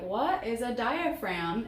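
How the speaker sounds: lightly voiced puzzled youngster, drawn out; slow, wondering question with a rising swing; puzzled young viewer. Teacher voicing younger viewers who don't know the word, puzzled. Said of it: "are like".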